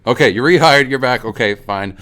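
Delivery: teacher grudgingly taking him back. Retold or imitated. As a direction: give in, still annoyed. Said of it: "she's like".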